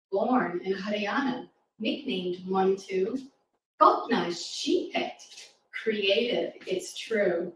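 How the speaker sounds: rhythmic rhyming poem read to a class; poem recital. Acted. Reading a rhyming poem aloud.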